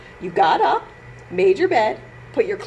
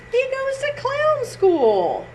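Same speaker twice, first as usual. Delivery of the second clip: amused reveal; 10 semitones higher than usual. Acted. Repeated reveal.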